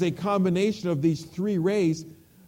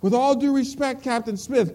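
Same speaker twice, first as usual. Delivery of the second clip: lightly acted sailor, pitched higher; private answering back; 5 semitones higher than usual. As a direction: answer a superior firmly over the radio. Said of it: "came the private's voice again".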